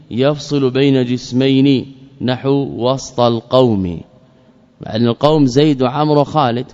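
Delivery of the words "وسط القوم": وسط as "wast", no vowel after the s; وسط with a vowelless seen; silent middle consonant. Shown as a demonstration. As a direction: say وسط with s running straight into t. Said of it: "ووسط بالسكون".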